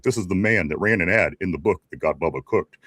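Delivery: lightly imitated deep announcer; James Earl Jones. Host recounts the old commercial, in a lightly deepened voice. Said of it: "with that real deep voice".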